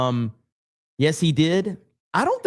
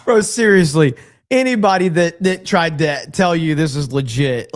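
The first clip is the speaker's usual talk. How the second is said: louder, fed-up burst; exasperated outburst; 2 semitones higher, 6 dB louder than usual. Real, not acted. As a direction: blurt it out in disbelief. Exasperated rant at fake clip.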